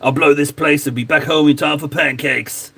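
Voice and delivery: lightly voiced action-hero quote; a hint of a tough movie hero, deadpan; Total Recall movie quote. Streamer lightly doing a Total Recall line while painting. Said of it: "making me do all the impressions".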